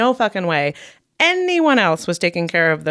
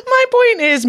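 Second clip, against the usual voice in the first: words pushed out through a laugh; 3 dB louder than usual. Real, not acted. Host to co-host, laughing through her point. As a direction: still laughing as she tries to speak.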